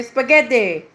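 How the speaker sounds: put-on Italian accent; strong Italian accent. Shown as a demonstration. Player repeats a pasta shape for the game, strong Italian accent. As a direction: say it like a mock Italian. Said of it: "That's my strong Italian accent".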